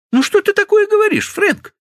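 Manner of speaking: put-on high, loud, fast girlish outcry; loud protest. Stephanie cries out at Frank, high and loud. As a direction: cry out at him in protest.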